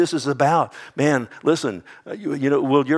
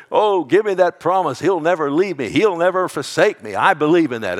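loud, raised plea for the promise; fervent louder cry, higher pitch; deathbed cry out; 5 semitones higher, 6 dB louder than usual. Pretend. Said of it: "I'm gonna cry".

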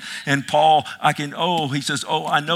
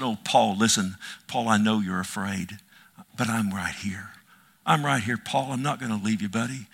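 soft, low comforting voice, sinking to a whisper; tender reassurance; 3 semitones lower, 3 dB quieter than usual. Acted. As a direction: console a scared friend quietly. Jesus comforting frightened Paul.

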